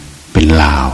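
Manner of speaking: slowly, deliberately declared; slow teacher's verdict. Retold or imitated. Ajahn Chah telling visitors the monk is Lao, slow. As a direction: lay the words out slowly like a proud teacher. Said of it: "ท่านว่าอย่างนั้น".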